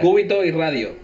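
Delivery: "Cubito y Radio" said in Spanish; "Cubito y Radio" with Spanish vowels and tapped r; Spanish words. Real, not acted. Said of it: "I don't know the names in English".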